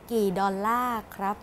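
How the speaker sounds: "ดอลลาร์" said the Thai way, stretched last syllable; Thai accent. Shown as a demonstration. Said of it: "put in Thai accent".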